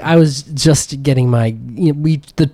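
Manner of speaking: high, slow flustered excuse. Acted. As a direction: stammer out a lame excuse. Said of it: "He's like".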